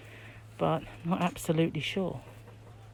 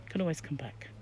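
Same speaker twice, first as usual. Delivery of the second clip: soft whispered repeat; whispering; 7 dB quieter than usual. Real, not acted. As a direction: whisper it to yourself.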